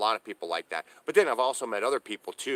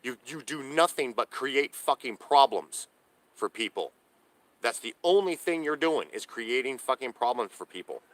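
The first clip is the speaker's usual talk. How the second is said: angry rant; 4 semitones higher, 4 dB louder than usual. Real, not acted. Homeless vlogger venting at the cops who moved him, loud and angry. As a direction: lay into them, every word heavy.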